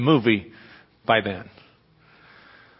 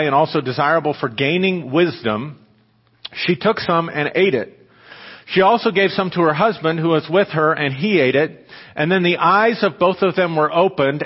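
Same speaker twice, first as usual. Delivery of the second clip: measured scripture reading to the congregation. Acted. Pastor reading Genesis to the congregation, measured. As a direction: read the passage steadily, with weight.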